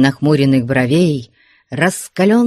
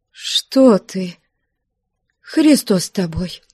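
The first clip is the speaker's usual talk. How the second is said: fearful hush; 4 semitones higher, slower than usual. A narrator's reading. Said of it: "Упавшим от страха голосом чуть слышно".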